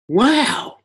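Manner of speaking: a high, delighted "wow" of surprise; surprised wow. Retold or imitated. Traffic controller hearing the driver came from Ghana, surprised. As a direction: let the wow leap up, genuinely struck.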